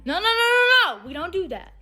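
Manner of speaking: sing-song no, no, no; half-hearted singsong scold; lightly voiced lax parent; mock parent scolding. Parent mock-scolding kid weakly.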